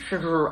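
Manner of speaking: Trudeau said far forward in the mouth; front of the mouth. Shown as a demonstration. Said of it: "I have to say that word all in the front of my mouth".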